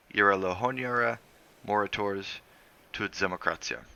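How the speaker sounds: San Lorenzo creole, lilting; island dialect. Shown as a demonstration. Driver naming the martyrs in dialect, lilting. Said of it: "he'd said in dialect".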